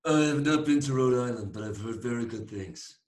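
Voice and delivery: lightly affected mock voice, easing back down; put-on voice. Co-host answering whether he's been to Rhode Island, put-on voice. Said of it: "Whose voice is that?".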